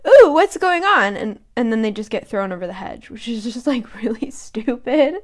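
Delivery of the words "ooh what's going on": high, loud, dopey curiosity; dumb curious gnome. Retold or imitated. Gnome curious about the commotion, high and loud. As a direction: play a clueless gnome wandering over. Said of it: "are like".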